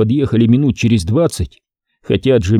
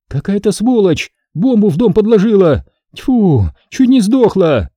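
indignant trader; 9 semitones higher than usual. Acted. Trader complains to Jamila about the bomb, high. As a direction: spit out the outrage. Trader rants after escape.

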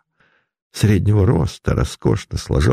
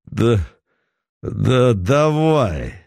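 put-on slow slurred drunken yes; drunk slurring; 3 semitones higher, much slower than usual. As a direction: slur it like a drunk. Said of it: "заплетающимся языком ответил Путилин".

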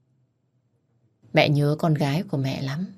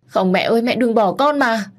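wailing plea; 7 semitones higher, 5 dB louder than usual. Acted. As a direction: wail at the mother not to go. Daughter wails as mother dies. (khóc gào, cao, to và chậm)

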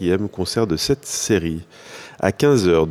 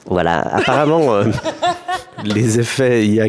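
helium voice; 3 semitones higher than usual. Real, not acted. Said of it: "à un ballon d'hélium".

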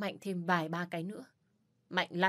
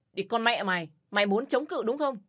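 higher, louder snarl of rage; vicious threat; 4 semitones higher, 4 dB louder than usual. Acted. Abusive man snarling at the resisting woman, furious. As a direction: bark it at her.

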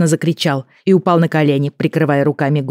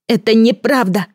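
put-on boy's cry; 7 semitones higher than usual. A narrator's reading. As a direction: yell it over the square. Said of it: "Его крик полетел над площадью".

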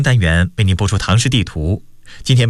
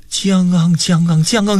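higher-pitched drawn-out animal call; imitated beast cry; 8 semitones higher, slower than usual. A narrator's reading. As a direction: voice the creature's repeated croaking roar. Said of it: "那莽古朱哈又吼了起来". (拉长声音模仿怪兽吼叫)

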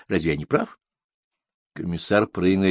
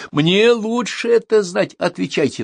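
stern rebuff; 12 semitones higher, 4 dB louder, slower than usual. A narrator's reading. Commissar rebuffs the suspect.

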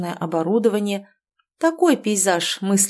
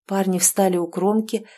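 plain reading voice

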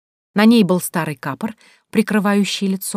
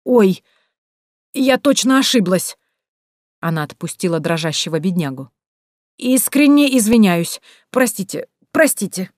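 sudden fake apology; 2 semitones higher than usual. A narrator's reading. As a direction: back off with exaggerated apologies.

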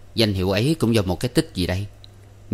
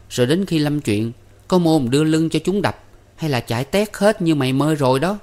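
put-on higher-pitched young woman chiding her brother; Con Ba, scolding sister; 8 semitones higher than usual. A narrator's reading. Ba compares her skinny brother with the guest, chiding. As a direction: scold him in a raised, running pitch.

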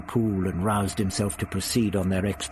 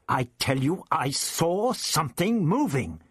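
put-on raised, spluttering young teacher; the teacher Ian, outraged over his tie; indignant Ian; 6 semitones higher than usual. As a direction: Ian protests about his ruined tie. Ian insists.

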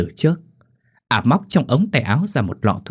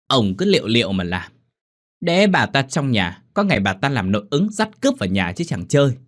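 sulky raised voice; 3 semitones higher than usual. Acted. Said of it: "lên giọng giận dỗi".

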